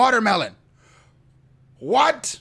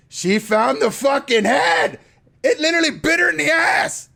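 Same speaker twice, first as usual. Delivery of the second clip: outraged disbelief; 9 semitones higher than usual. Real, not acted. Outraged at film's plot.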